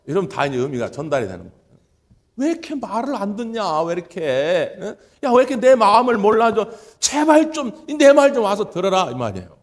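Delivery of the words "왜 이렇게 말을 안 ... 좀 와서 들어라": pleading and louder, rising higher; a frustrated father begging to be heard; exasperated God. Acted. God pleading with His people to listen, exasperated.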